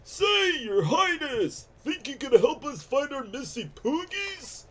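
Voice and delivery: hint of an old codger asking a favour; old man voice. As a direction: lightly play a hopeful old man. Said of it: "the old man voice is normally easy for me".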